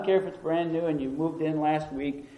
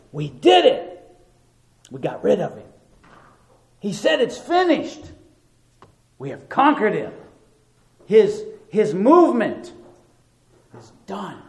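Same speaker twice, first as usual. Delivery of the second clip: mock gloating, higher and louder; 4 semitones higher, 4 dB louder than usual. Preacher voicing Pharisees celebrating Christ's death, gloating. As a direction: crow over a beaten enemy.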